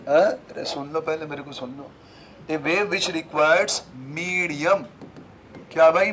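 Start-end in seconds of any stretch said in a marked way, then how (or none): 2.5-4.8 each word stretched very slowly for note-taking; slow dictation. Shown as a demonstration. Teacher dictating a definition so students can write it down. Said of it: "definition में क्या लिखूं".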